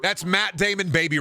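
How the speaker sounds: can't believe the chair size; incredulous rant. Real, not acted. Watching a movie trailer, incredulous about the baby chair.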